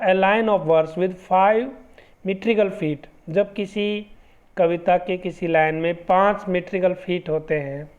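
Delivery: reading the definition out word by word, very slow; slow dictation. Shown as a demonstration. Teacher dictating the iambic pentameter definition, very slow dictation. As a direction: dictate it slowly so students can write it down. Reads English definition from slide.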